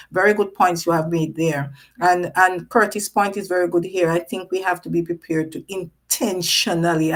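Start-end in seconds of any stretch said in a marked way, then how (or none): 6.2-7.1 "intentionally" given a little extra weight; stress on intentionally. Real, not acted. Host stressing a key word for the viewers, leaning into "intentionally". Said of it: "I'm stressing that word".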